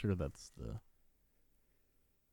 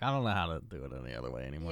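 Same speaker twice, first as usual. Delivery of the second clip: mock Shatner; 6 semitones lower, much faster than usual. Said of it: "He's like".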